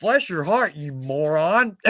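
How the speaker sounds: sweet words with a sly laugh on the insult; sugar-coat the insult, laughing; sarcastic blessing. Shown as a demonstration. Southern host demoing the sarcastic bless your heart. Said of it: "The other one is, well".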